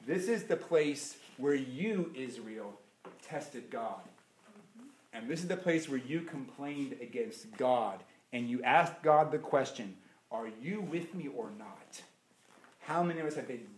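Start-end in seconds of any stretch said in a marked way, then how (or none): 0.0-12.0 much softer, lower, grave; solemn rebuke. Acted. Moses solemnly rebuking Israel for testing God. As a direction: hush it down to a heavy reproach. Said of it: "Moses turns around and he says".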